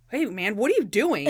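mock-offended confrontation; lightly acted outrage; indignant challenge. Randy confronts the sergeant.

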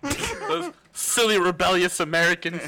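hammed-up posh English sneer; mock posh British. Mocking the British after the accent talk.

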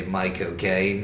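slow demo of a Cockney accent on "My cocaine"; "My cocaine" drawn out as a British accent cheat; Michael Caine. Shown as a demonstration. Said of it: "the cheat for saying Michael Caine".

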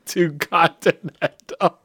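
slow, laughing through the words; real laughter in the voice; laughing repeat. Real, not acted. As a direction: echo it while cracking up. Repeating the phrase while laughing.

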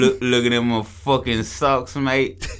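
playful Australian impression; Australian accent. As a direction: jeer in a jokey Australian accent. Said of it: "Has an Australian accent".

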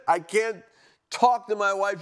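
ordinary talk

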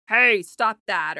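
loud, drawn-out mock scolding; imitated yelling. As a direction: yell it like a parent from the couch. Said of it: "He's just yelling".

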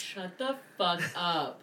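slow whispered disbelief; amazed whisper. Real, not acted. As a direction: whisper it, stunned.

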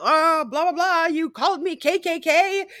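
mimicking a shrill screaming woman, pitch way up; mock screaming lady. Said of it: "She's screaming about".

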